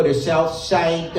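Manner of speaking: slow South Side Chicago accent. Shown as a demonstration. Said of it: "as you get into Chicago".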